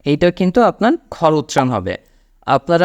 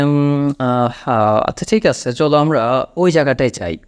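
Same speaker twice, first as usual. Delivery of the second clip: thinking hesitation. Shown as a demonstration. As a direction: hesitate as if working out where to go. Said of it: "একটু ভাবনা চিন্তা করে". (ভেবে ভেবে বলার ভান)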